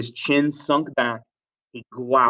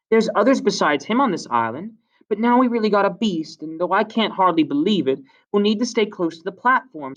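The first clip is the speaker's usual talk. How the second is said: put-on high-pitched boy's voice for Piggy; Piggy, eager talker; 8 semitones higher, 3 dB louder than usual. Piggy returns to his subject, high eager voice. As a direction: argue eagerly in a higher voice.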